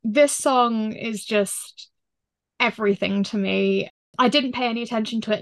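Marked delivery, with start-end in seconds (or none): 0.0-3.9 choked up with emotion. Real, not acted. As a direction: voice tight and choked. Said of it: "if I sound a bit choked up".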